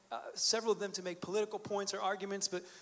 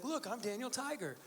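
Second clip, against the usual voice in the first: lightly voiced little boy, a bit higher; excited young son; 4 semitones higher, 4 dB quieter than usual. Five-year-old son declares himself Daniel Tiger, lightly imitated child. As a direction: imitate a small child showing off, softly pitched up. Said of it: "and he's like".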